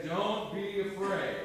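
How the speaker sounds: slow, drawn-out comfort; slow reassuring. Shown as a demonstration. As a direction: model it slowly for the group.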